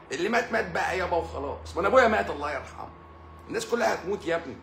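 high, mocking imitation of the excuse. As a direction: lift the pitch to mock him. Mimicking a careless excuse.

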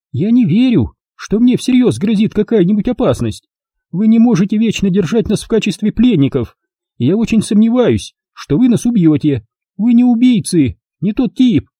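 high, pleasant and sure; lightly voiced lady. A narrator's reading. Miss Rushby reassures the kidnappers, lightly voiced. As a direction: smile through a calm refusal. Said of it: "с приятной улыбкой".

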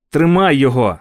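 shouted command to the dog; shouting. A narrator's reading. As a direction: yell after the dog. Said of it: "кричав я".

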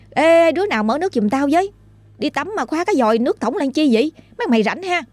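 high-pitched annoyed call from the bathroom. Retold or imitated. Trinh in the shower calls to her friends, annoyed, calling out. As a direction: call out to the others, fed up. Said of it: "mới kêu vọng ra".

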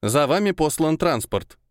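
creaky synthesized voice through a speaker; old speech synthesizer. Acted. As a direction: squeak it out like an old machine. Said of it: "проскрипел тот же голос".

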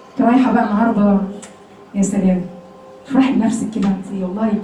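low, soft, coaxing tempter voice; lightly voiced devil flattering her, low and soft; devil's whisper. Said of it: "الشيطان كلنا بيجيبها لنا".

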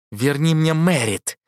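медленно, с рычанием, требовательно; прорычать требование, как зверь; звериный рык. A narrator's reading. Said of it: "голос больше походил на звериный рык". (Мейтленд требует у богини вернуть Мэрит: медленный рык)

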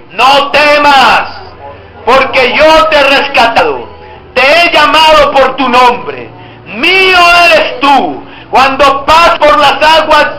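slow, declaimed Bible reading in unison; solemn scripture recitation. Acted. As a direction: read it out with strong faith. Reads Isaiah 43 aloud.

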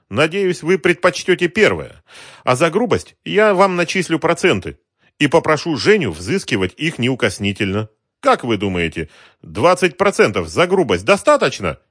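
polite racketeer. Acted. Racketeer smoothly threatens the shopkeeper, suave menace.

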